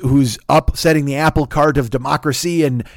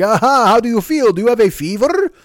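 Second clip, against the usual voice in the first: higher, hammed-up spooky mummy voice; mock mummy; 6 semitones higher, 3 dB louder than usual. Email mummy asking about fever, hammed-up spooky. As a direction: play a goofy creepy mummy. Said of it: "I don't know why the mummy talks like that".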